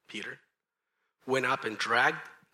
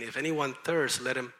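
mildly raised preaching call; crying out; 3 dB louder than usual. Retold or imitated. Jesus at the great feast, mild crying out. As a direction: call to the crowd, punching "come". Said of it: "cried out, saying".

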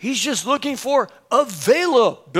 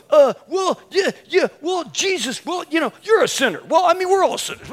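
flustered Elmer Fudd; 5 semitones higher than usual. Retold or imitated. Preacher caught off guard, blurting out the gospel in a mild Elmer Fudd fluster. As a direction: trip over the words, like a cartoon hunter. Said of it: "I sounded like Elmer Fudd".

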